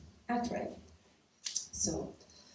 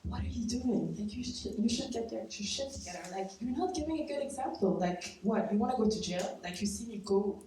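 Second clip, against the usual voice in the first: retold yell; 3 semitones higher than usual. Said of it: "she would yell at him".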